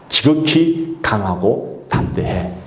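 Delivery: very slow, stretched "지극히"; slow earnest blessing; slow fatherly charge. Acted. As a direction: draw every word out gently. God speaking as Father.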